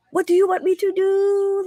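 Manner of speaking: high, put-on voice of a snapping dentist; mock yelling dentist. Retelling how the dentist snapped at her, high mock yell. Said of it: "Like, yelling at me".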